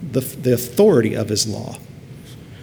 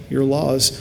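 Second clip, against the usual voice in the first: humble plea. Retold or imitated. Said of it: "He has mercy upon the humble".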